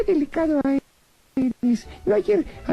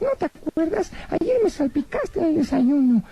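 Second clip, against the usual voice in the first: lightly voiced cheeky rabbit puppet; a cheeky little bunny teasing the magician; voz de conejito títere pícaro.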